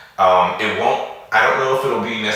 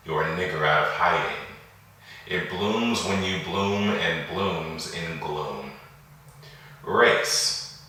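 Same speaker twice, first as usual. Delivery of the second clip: poem recitation. Acted. Poet reading a poem on racism and police brutality, measured recitation. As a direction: recite deliberately, with pauses between the lines.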